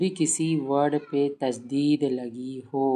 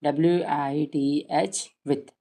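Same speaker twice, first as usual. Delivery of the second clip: slow rote drill; much slower than usual. Shown as a demonstration. Teacher shows rote spelling drill for children, slowly. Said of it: "ऐसे रटवाइए".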